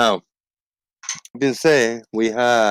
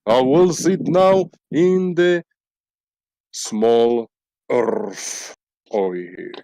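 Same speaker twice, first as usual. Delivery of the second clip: slow put-on frog voice; lightly voiced frog, slow; intellectual frog voice; slower than usual. Frog character speaks.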